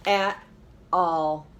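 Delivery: a hint of a confident girl; lightly voiced Kristen. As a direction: say it with calm certainty. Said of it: "and said".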